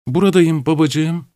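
put-on high, slow answer from a girl; shrill voice. A narrator's reading. Daughter answers her father from behind the window in a high voice. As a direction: call back high and thin from behind the window. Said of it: "beklenmedik bir şekilde tiz".

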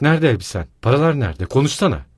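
öfkeli sorgu; furious shouting. Acted. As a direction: demand answers in fury. Wife furiously interrogates husband.

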